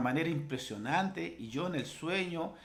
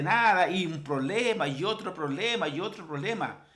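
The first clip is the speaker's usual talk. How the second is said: raised, urgent preaching; emphatic pulpit delivery; fervent exhortation; 4 semitones higher than usual. Acted. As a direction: exhort the congregation insistently. Exhorts the congregation with force.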